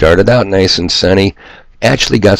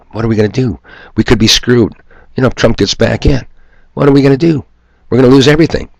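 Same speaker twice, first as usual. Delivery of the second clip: rising mock panic, higher toward the end; mock panicked caller; 6 semitones higher, faster than usual. Host mocking callers who fear Trump, in a mock panicky voice. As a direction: whine it like a scared voter who fears losing everything. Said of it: "in too many people's minds".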